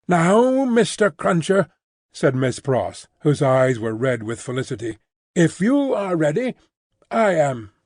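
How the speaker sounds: a hint of a bustling English maid; Miss Pross voice.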